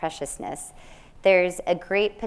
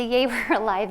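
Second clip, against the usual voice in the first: laughing yay; 2 semitones higher than usual. Retold or imitated. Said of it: "sometimes the".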